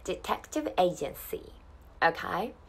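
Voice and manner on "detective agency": slow, careful "detective agency"; measured teaching pace; repeat-after-me model. Shown as a demonstration. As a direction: say "detective agency" slowly for learners to copy. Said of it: "Repeat after me".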